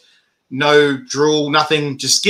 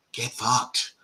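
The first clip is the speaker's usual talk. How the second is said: much softer and lower, under the breath; stunned disbelief; 4 semitones lower, 13 dB quieter than usual. Retold or imitated. Host retells seeing Greg beaten on video, quietly stunned. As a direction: drop it to a hushed, low reaction.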